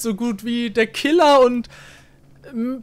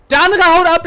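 higher, louder indignant repeat; 4 semitones higher, 4 dB louder, faster than usual. Real, not acted. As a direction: stress "andere" in outrage. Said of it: "repeats it indignantly".

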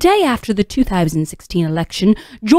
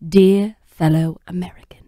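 put-on British accent quote. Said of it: "Grace to assume the persona of Rebecca Mead".

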